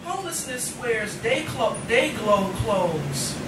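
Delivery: rhythmic, weighted spoken word; impassioned poetry reading; poem recitation. Acted. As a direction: perform it to a live audience.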